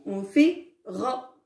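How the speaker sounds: ra said slowly from the back of the throat; slow model reading. Shown as a demonstration. Teacher reading the vowel with the class, slow. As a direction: draw out ra for the children. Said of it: "comment on va lire".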